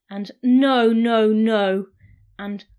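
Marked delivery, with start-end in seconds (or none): 0.4-1.9 loud panicked no's. A narrator's reading. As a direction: cry out in alarm. Panicked search for ring.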